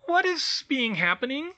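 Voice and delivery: very high-pitched elf, questioning lift at the end; bleary house-elf. A narrator's reading. Woken elf asks Hermione what is wrong, bleary high squeak. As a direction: pipe up as a newly woken elf. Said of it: "she said blearily".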